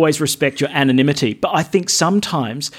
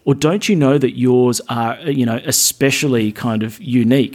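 devil nattering; 4 semitones lower than usual. Pretend. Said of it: "the devil kind of nattering in your ear".

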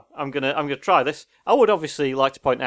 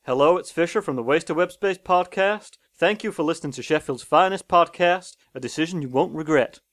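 higher-pitched New Orleans, Louisiana accent; US Deep South accent; 3 semitones higher than usual. Shown as a demonstration. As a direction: put on a mild American Southern accent. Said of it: "the U S Deep South one".

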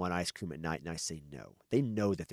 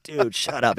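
mock shout; 5 semitones higher, 12 dB louder, slower than usual. Joking retort to teasing daughter.

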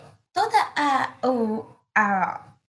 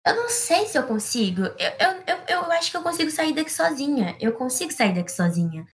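unsure ant; 4 semitones higher than usual. Acted. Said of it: "E a amiga falava".

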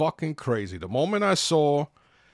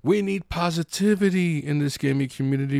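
lightly put-on sanctimonious voice; mock preachy quote; 3 semitones higher than usual. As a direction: parody a self-righteous streamer. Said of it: "And you're saying".

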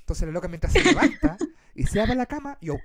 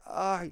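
drawn-out, quiet moan of pain; soft acted groan; 6 dB quieter than usual. Storyteller who could not sleep, soft acted groan. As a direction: moan softly, imitating a bellyache. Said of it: "empecé a quejar".

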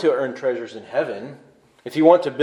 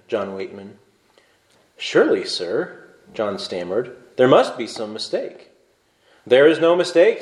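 reading a story aloud; measured storytelling voice; story narration. A narrator's reading. Pastor reads story aloud.

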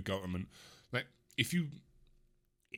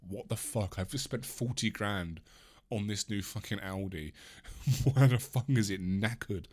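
mock outraged buyer; 4 dB louder than usual. Imagined angry car buyer.

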